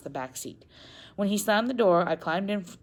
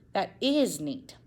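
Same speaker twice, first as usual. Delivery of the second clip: teasing; 3 semitones higher than usual. Acted. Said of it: "my father teased".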